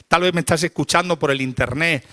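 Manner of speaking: ordinary delivery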